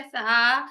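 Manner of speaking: सा with a light open a; light सा sound; thin saa. Shown as a demonstration. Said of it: "बारीक हर्फ है".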